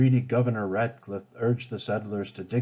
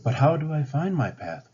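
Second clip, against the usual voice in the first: wondering; 5 semitones higher than usual. Acted. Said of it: "Pocahontas wondered".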